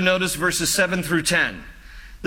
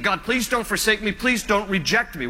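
imitated plea, starting higher; retold pleading; 3 semitones higher than usual. Pastor voices David praying not to be forsaken, pleading. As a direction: act out a mild, urgent appeal to God. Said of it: "And he's pleading".

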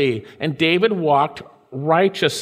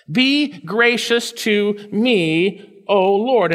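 slow plea; 3 semitones higher, much slower than usual. Acted. Slow pleading prayer.

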